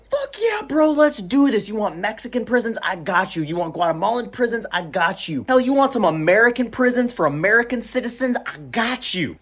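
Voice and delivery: lightly hammed party-bro dealmaker; bro-dude president. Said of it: "this motherfucker definitely talks like that".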